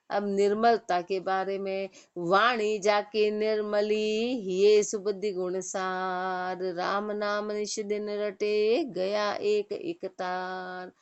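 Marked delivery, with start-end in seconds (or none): 2.2-10.9 slow, drawn-out verse recitation; measured devotional recitation with long held vowels. Acted. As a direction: recite the couplet slowly, stretching the line endings. Recites scripture verse before explaining it.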